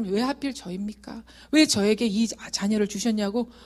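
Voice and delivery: mildly insistent retold plea to God; retold pleading protest. Mother protesting to God over her child, mildly aggrieved pleading. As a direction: press the complaint, questions piling up. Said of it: "하나님, 떼썼어요".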